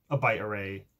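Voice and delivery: a touch of put-on fanciness; lightly affected, self-consciously fancy phrasing. Real, not acted. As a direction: say it as if being fancy. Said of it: "why I said it like that".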